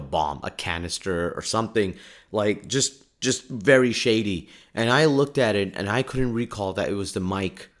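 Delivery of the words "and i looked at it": ordinary delivery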